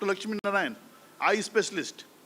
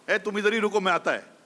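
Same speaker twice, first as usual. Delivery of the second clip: put-on Doctor Lakshmi Narayan's South Indian accent; 3 semitones higher, much faster than usual. Tamil eye doctor telling his patient to wait, in a light South Indian accent. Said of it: "अपना south Indian accent में".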